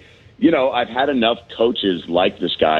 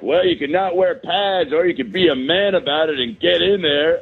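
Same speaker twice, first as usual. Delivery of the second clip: barking gym coach; 5 semitones higher than usual. Retold or imitated. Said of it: "he was like".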